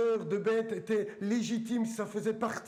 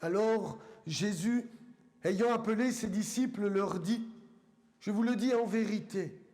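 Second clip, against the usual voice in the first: measured Bible reading with long pauses between phrases; deliberate, weighty reading aloud to a congregation; solemn scripture reading. Acted. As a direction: read it out phrase by phrase, letting each one land.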